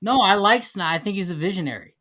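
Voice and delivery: insistent praise with swooping inflection; not quite genuine. Real, not acted. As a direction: protest sincerity while sounding unconvincing. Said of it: "sounds not a hundred percent genuine".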